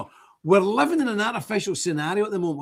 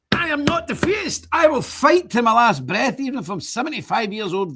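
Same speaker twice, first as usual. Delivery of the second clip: indignant protest; 6 semitones higher, 3 dB louder than usual. Real, not acted. Rebutting accusers, voice cracking.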